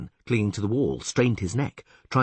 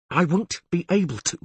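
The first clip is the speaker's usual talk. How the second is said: through gritted teeth; 9 semitones higher than usual. Acted. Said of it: "she said through her teeth".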